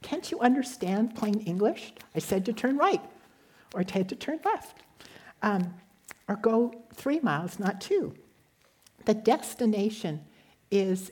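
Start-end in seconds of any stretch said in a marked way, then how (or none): 0.0-8.1 higher-pitched exasperated telling-off; mock scolding. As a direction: play an impatient GPS scolding the driver, without really yelling. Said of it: "doesn't scold us or start yelling".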